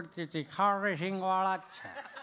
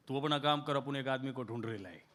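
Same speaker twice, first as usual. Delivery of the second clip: gangster voice; 8 semitones lower, 6 dB quieter than usual. Retold or imitated. Gangster in Bombay Hindi.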